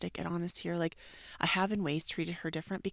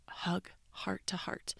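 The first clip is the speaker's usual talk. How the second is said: soft whisper; 5 dB quieter, slower than usual. Real, not acted. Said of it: "whispered instruction".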